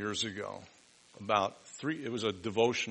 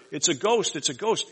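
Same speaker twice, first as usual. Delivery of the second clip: frightened cry; 6 semitones higher, 7 dB louder than usual. Retold or imitated. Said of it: "they cry out for fear".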